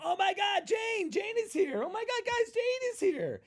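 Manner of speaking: very high, shrill-pitched squeal of delight; squealing excited greeting. Retold or imitated. Guests at the party, squealing over Jane's arrival. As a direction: gush like the party just arrived. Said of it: "they go, shout".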